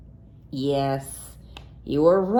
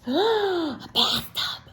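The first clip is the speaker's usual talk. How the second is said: surprised; 9 semitones higher, much slower than usual. Acted. Reader gasps at discovery.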